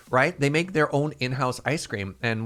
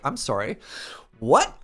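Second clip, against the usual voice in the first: disbelief; 4 dB louder than usual. Retold or imitated. Stunned by geisha espresso offer.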